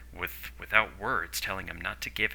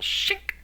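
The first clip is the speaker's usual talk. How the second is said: imitated blade sound; quick spoken shink of a knife; 5 dB louder than usual. A narrator's reading. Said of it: "sound from the knife".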